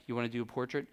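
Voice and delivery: lightly imitated, low soft-spoken star; a hint of a low, understated celebrity voice; a singer. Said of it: "'Cause that's how he talks".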